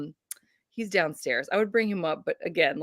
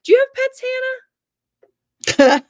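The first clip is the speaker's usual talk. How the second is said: teasing; 7 dB louder, much slower than usual. Real, not acted. Teasing friend about pets.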